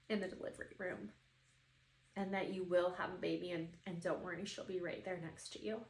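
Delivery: softly retold comfort; gentle reassurance. Psychic passing mom's message to daughter, gentle reassurance.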